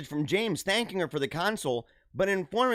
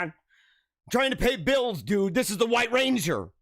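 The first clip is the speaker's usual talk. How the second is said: raised-pitch haggler's plea; exasperated protest; 3 semitones higher, slower than usual. Retold or imitated. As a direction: plead your case to the shopkeeper. Acted haggling protest at low offer.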